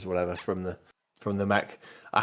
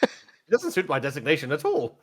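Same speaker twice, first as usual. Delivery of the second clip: lightly voiced, higher droid; a hint of puzzled droid; Nim; 4 semitones higher than usual. Droid puzzles over its designation, lightly voiced droid. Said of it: "I'll call you Nim".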